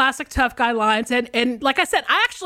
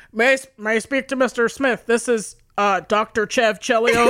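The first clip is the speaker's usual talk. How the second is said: lightly voiced prank-call doctor; mock-official prank call, barely held together; prank caller; 3 semitones lower than usual. Teenager prank-calling a friend as a doctor, mock-serious. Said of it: "stupid prank phone call name".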